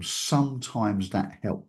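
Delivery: "sometimes" leaned on, slow and soft; slow down and weigh the word "sometimes"; stress on sometimes. Shown as a demonstration. Speaker stressing that the advice only sometimes works, "sometimes" slow and weighted. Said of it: "I'm emphasizing the word sometimes".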